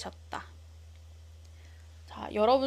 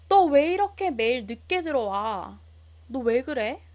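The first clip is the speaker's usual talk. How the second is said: raised, scolding father's voice; angry father; 2 semitones higher, 5 dB louder than usual. Retold or imitated. Father scolding his late-coming son, louder and angry. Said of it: "화를 내셨다".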